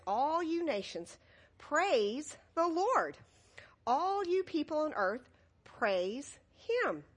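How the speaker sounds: slow, measured reading of the psalm; scripture reading. Acted. Children's pastor reading scripture slowly. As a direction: read the verse slowly to the children.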